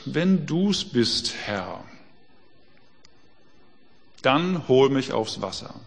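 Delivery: slow and drawn out, each phrase spaced; slow, measured plea. Retold or imitated. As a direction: weigh every word, slowly asking. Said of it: "Und dann sagt Petrus".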